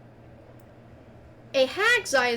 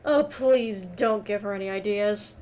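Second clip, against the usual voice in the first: talking through cantaloupe; mouth full; 5 semitones lower than usual. Acted. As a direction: say it around a mouthful. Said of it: "Meg says with a mouthful of cantaloupe".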